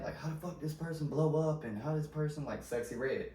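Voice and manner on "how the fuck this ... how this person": mildly annoyed mock complaint, higher; retold indignant griping, pitched up a little; mad haters. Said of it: "people be getting mad".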